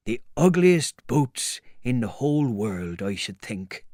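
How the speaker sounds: lightly voiced disgruntled tramp; grumbling tramp. Tramp looking sadly at his ugly boots, mild grumbling.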